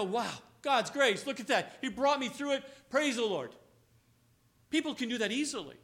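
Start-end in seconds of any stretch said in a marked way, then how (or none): 0.0-3.5 mock praise. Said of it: "you look back and go".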